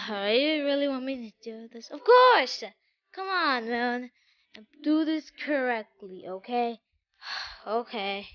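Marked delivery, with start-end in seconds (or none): 1.9-4.1 excited. Acted. Eager reply to a reluctant Moon.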